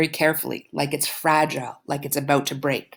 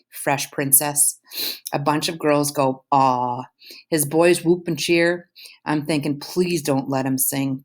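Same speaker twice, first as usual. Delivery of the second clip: story narration. A narrator's reading. Teacher reading a novel chapter to students, in a calm narrating voice. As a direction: read the novel aloud to the class.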